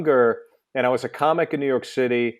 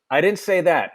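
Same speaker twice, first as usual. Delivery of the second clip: imitating a singer; 3 semitones higher than usual. Retold or imitated. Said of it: "you do such a good fucking impersonation".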